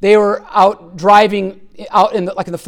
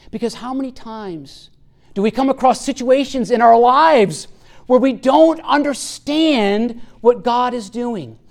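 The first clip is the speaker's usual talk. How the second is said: ordinary delivery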